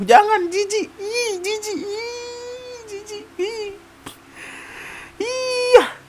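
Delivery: suara tinggi melengking penuh jijik; jijik dibuat-buat. Pretend. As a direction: merengek jijik seperti cewek manja. Pura-pura jijik dengan suara tinggi. (merengek jijik dengan suara sangat tinggi)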